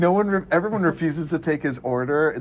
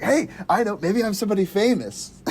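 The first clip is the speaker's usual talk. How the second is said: imitating Ed; 5 semitones higher than usual. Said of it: "He's just like".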